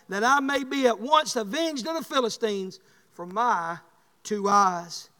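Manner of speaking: loud, slow, emphatic Bible reading; preaching scripture. Acted. Preacher reading Samson's prayer to the church, loud slow proclamation. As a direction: proclaim the verse, drawing out the words.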